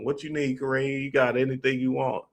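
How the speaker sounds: imitated sweet-talking mama; doting auntie. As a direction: fuss over a favorite child. Voices the doting mother of friends.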